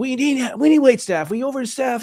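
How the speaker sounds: shrill, very high yelling. Telling a story about a restaurant manager, the speaker re-enacts yelling at him. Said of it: "I yelled at him like".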